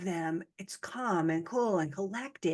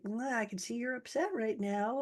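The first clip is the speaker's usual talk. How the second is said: calm and cool; 3 semitones higher, 5 dB quieter than usual. Retold or imitated. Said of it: "You become calm and cool".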